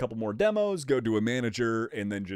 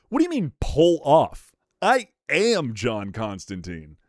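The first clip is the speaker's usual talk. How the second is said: playfully affronted, drawing out the claim; mock offended; 3 semitones higher, 5 dB louder, slower than usual. Streamer feigns offence at a chatter's cosplay compliment, mock indignant.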